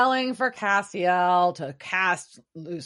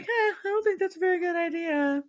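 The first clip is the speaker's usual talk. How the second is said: higher, fast, dithering Castiel voice; dopey Castiel; 10 semitones higher, much faster than usual. Retold or imitated. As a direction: shrug it off in a dim, higher voice. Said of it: "Gas like".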